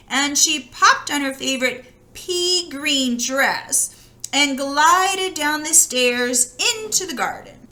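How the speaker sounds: lively read-aloud voice for a fairy tale; storybook reading. A narrator's reading. Reading a fairy tale to children, in a lively storytelling voice. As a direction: tell it like a bedtime story to children.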